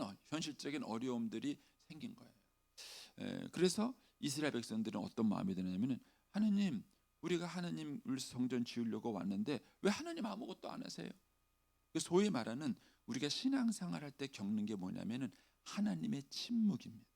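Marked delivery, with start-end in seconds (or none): 6.3-11.1 pleading to God. Acted. Voicing Israel's plea to God. (하나님께 호소하듯 높은 목소리로)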